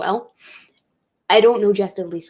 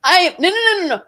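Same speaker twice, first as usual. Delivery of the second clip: high, tearful protests on the edge of crying; choking up; 7 semitones higher, 3 dB louder than usual. Real, not acted. Vlogger choking up as his housemate hugs him goodbye. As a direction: voice cracking as the tears start. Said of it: "I'm gonna cry".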